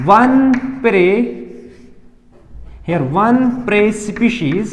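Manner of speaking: slow, spaced-out dictation with long pauses. Shown as a demonstration. Teacher dictating a definition, slow and spaced. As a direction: give them time to write each word. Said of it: "देखो, here".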